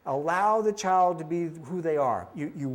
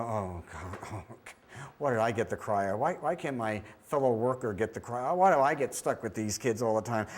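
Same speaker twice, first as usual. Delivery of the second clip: mildly exasperated mock complaint; weary dread; 4 semitones lower than usual. Screener stuck with the crier, weary dread. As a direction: grumble low under your breath at first, then moan on.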